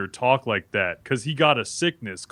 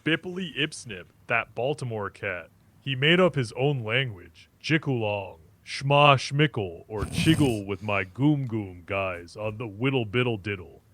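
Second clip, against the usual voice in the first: put-on light Jamaican accent. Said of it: "I want you to talk like this guy".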